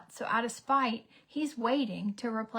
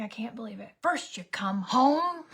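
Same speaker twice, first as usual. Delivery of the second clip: mock whispered rage. Psycho rant at daughter, whispered.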